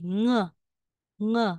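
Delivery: "Ng" hummed as a nasal ng; "Ng" as one nasal hum; ng sound. Shown as a demonstration. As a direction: say "Ng" as the sound in sing, not the letters. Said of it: "Yung bigkas niya".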